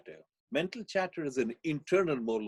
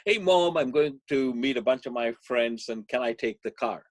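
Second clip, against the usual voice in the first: put-on excited teen; 6 dB louder than usual. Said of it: "comes up to his mother all excited and says".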